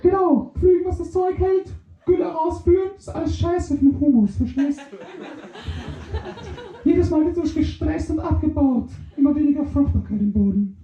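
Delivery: high, excited little microbe; squeaky microbe voice. Acted. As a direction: chirp it up high and fast. Microbe rants about farming.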